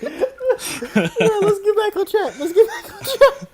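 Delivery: high, loud, laughing through words; can't stop laughing. Real, not acted. Laughing fit after the joke.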